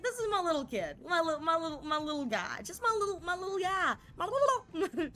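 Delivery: high, cooing affectionate voice; doting mom voice. Retold or imitated. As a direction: coo like a doting parent. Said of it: "she's like".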